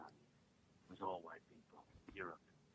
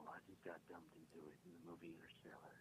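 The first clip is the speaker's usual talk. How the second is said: unvoiced whisper, much softer; whispered celebrity bit; 3 semitones lower, 23 dB quieter than usual. Caller whispering as a celebrity, told to speak up. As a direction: murmur it like a far-off caller. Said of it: "if you could speak up".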